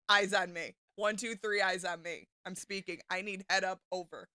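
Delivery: projecting classroom call, counting off; kindergarten teacher voice. Acted.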